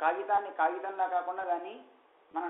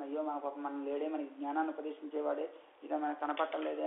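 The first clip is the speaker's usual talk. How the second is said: lower, softer voice of mild regret; imitated sorrow; 3 semitones lower, 4 dB quieter than usual. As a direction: mourn a lost teacher gently, understated. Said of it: "అని ఒక బాధ ఉంటుంది". (బాధ నటిస్తూ మెల్లగా)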